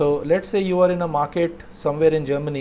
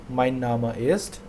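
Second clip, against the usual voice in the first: slow; 2 semitones lower, slower than usual. Shown as a demonstration.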